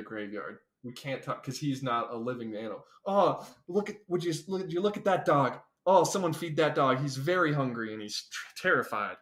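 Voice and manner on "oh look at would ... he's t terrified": awed wildlife narrator pointing things out; nature documentary. Pretend. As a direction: show off the animals like a safari guide. Safari guide bit about the dog.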